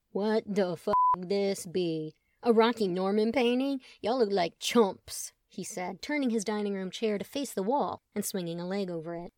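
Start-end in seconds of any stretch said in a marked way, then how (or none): 0.1-5.3 crude bro voice. Acted. Chet voiced, crude dude.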